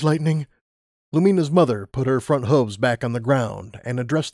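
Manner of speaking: calm but final; firm mother. Acted. Mother telling Lightning he must go, firm.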